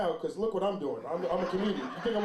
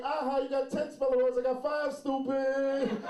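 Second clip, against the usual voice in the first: higher sing-song schoolyard jeer; taunting comeback; 5 semitones higher, slower than usual. Acted. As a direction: gloat like a teasing kid. Taunting classmates back in story.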